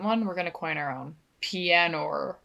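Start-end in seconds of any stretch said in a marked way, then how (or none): 1.4-2.4 Australian accent. Shown as a demonstration. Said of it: "like piano, but in an Australian accent".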